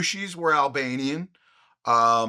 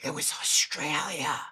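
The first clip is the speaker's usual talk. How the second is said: imitating producer; 6 dB quieter than usual. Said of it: "producer Pete comes in and he's like".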